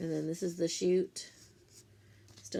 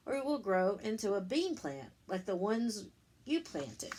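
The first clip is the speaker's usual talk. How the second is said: put-on reading to children; 3 semitones higher than usual. Teacher reading the bean book to her class, lilting storybook voice. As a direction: read it like story time for little ones.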